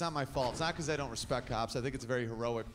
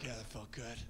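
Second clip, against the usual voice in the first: smug quiet satisfaction; 6 semitones lower, 13 dB quieter than usual. Acted. Smug after yelling.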